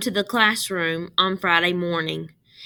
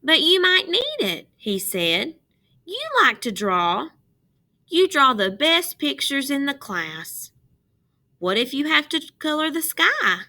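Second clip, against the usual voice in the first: high and louder, earnest protest; boy insisting she keep it; higher boy voice; 6 semitones higher, 4 dB louder than usual. Acted. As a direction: push back gently but eagerly. Russell protests kindly.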